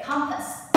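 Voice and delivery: compass, high and loud on the first syllable; stress on first syllable. Shown as a demonstration. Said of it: "You start as the first one".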